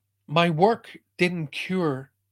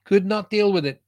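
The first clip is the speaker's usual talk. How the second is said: retold distress; 5 semitones higher, 5 dB louder than usual. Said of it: "crying like a baby".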